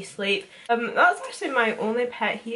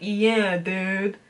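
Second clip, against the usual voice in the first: stoner dude voice. Retold or imitated. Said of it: "Rastafarian dude".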